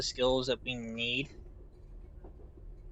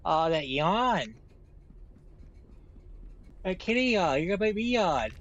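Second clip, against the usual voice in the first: cooing; 3 semitones higher than usual. Real, not acted. Cooing at yawning cat.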